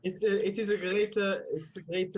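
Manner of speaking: hesitant mock French accent; lightly Frenchified English. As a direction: improvise haltingly with a French accent. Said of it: "In a French accent".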